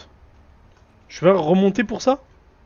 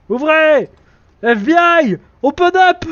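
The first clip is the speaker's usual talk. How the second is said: higher, louder cop shouting at the door; mock FBI raid; 12 semitones higher, 8 dB louder, slower than usual. Gamer pretends to be an FBI agent raiding the door. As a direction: bust in like a police raid.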